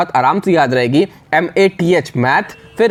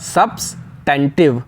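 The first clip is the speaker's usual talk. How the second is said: slow sounded out; 2 semitones lower, slower than usual. Shown as a demonstration. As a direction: split सब्सटेंटिव into two slow parts. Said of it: "सब्सटेंटिव की spelling कैसे याद रखोगे".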